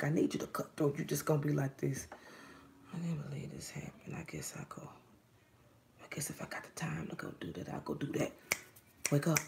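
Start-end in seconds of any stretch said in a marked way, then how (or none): 2.9-8.3 much lower, hushed resignation; softly imitating someone who has given up; mock resigned thoughts. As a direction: sigh it out low and soft, giving up. Voicing the client's resigned thoughts.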